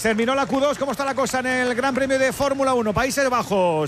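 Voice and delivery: upbeat, lifted sports-radio host voice; radio announcer. Acted. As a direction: announce it like a live sports show. Radio host hands over.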